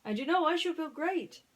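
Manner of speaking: high, loud pig voice; Ham voiced. Ham explaining about Andy's coins, high pig voice. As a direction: speak as a bouncy pig.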